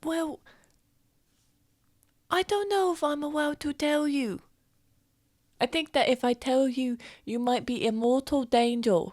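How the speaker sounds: put-on secretive young adventurer.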